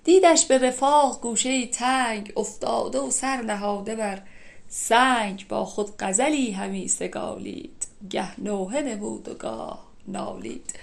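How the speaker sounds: measured, chanted reading of classical verse; poem recitation. Acted. Teacher reciting Nizami's couplets to the class, in a measured chant. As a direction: recite each half-line slowly and evenly, like verse.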